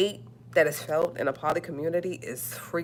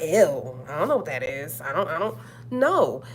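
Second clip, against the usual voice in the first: disgusted mock. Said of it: "For me to be like".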